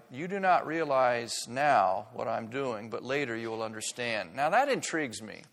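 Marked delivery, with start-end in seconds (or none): 0.1-4.3 calm, gentle Jesus. Acted. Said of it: "Jesus replied".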